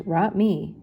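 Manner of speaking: cartoon dog mangling the words; lightly voiced dog; Scooby in dog speak. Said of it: "Scooby barked".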